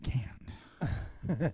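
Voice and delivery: a one-word whisper. Real, not acted. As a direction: breathe it out unvoiced. Whispering while on toilet.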